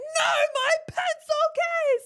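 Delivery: put-on very high, very slow, drawn-out sobbing wail. Retelling how a child answered while crying: imitating a crying child. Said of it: "Like, crying".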